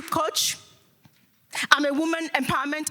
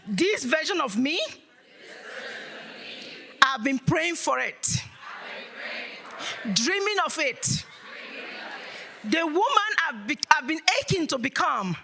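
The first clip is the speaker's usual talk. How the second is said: with attitude; 3 semitones higher than usual. Shown as a demonstration. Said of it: "say these words with an attitude".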